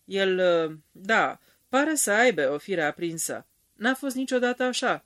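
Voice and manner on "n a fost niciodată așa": high-pitched, plaintive complaint; whining. A narrator's reading. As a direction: mildly whine it, pitched up high. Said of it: "pe un ton plângăreț". (plângăreț, cu glas ridicat)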